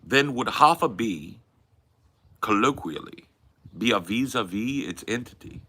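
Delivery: mannered British intellectual, pausing between phrases; Hitchens. Acted. Philosophizing on request about half a bee, imitated British intellectual. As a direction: hold forth like a learned British debater. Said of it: "Please do a Hitchens".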